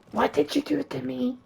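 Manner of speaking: very high, strained cry of a frightened woman; panicked high-pitched plea; shrill scared victim. Acted. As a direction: squeal it out in horror. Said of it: "She asks the witch".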